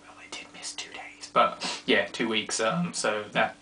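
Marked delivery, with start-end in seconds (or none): 0.1-1.3 whispered aside. Real, not acted. Telling viewers a small confession, in a whisper. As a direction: confide it under your breath.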